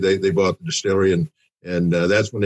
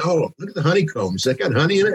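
mock customer voice; 7 semitones higher, faster than usual. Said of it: "a lot of people come up and say".

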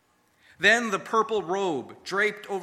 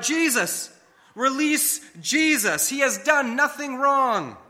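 high, louder desperate shout; shouted plea; 7 semitones higher, 4 dB louder than usual. Retold or imitated. Disciple shouting to Pilate over the crowd, desperate shout. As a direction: cry out to save him from the crowd. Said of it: "finally you find your voice and had shouted out".

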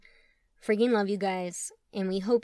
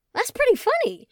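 high, loud amused laugh-line; tickled, nearly laughing; 9 dB louder than usual. Acted. Tom amused.

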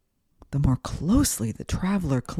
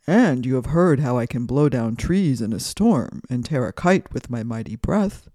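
proud, blustering wind voice; boastful wind; 4 semitones lower, 3 dB louder than usual. Acted. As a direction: play the bragging wind. Wind boasts of mighty breath.

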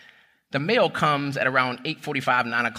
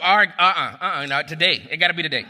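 praying hard; 3 semitones higher than usual. Retold or imitated. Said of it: "I'm praying hard".

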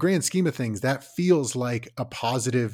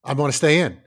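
acted kid refusing; 7 dB louder than usual.

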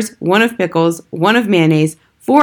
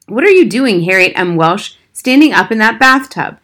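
louder, higher sharp reprimand; scolding nanny; 3 semitones higher, 4 dB louder than usual. Acted. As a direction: scold the child standing up.

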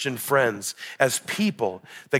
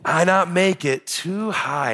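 put-on higher, slow toddler voice; two-year-old impression; 5 semitones higher, slower than usual. Repeating son's admission of a missed shot, imitated toddler. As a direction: imitate a little boy's stretched, singsong words. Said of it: "impression of my two-year-old".

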